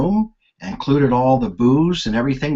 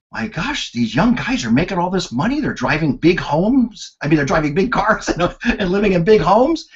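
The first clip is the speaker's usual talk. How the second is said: amazed thought; 5 semitones higher than usual. Retold or imitated. Retold inner amazement.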